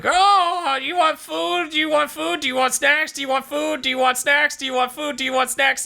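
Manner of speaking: very high, eager squeaky voice, looping the offer; squeaky King Kai. Retold or imitated. Mocking King Kai offering Beerus food, very high squeaky voice. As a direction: pester him with snacks in a shrill cartoon squeak. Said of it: "King Kai's like".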